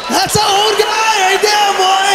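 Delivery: hammed-up old man; mock old-man voice. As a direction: play the old candidate. Mocking old candidate on stage.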